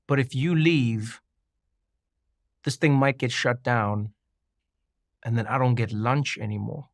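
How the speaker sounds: mild deadpan as the writer, unbothered; dry deadpan. Retold or imitated. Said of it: "really dry in his delivery".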